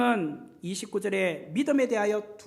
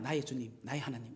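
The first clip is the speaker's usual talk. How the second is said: flat and plain; 10 semitones lower, 12 dB quieter, faster than usual. Shown as a demonstration. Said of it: "이렇게 말했을까요? 아닙니다".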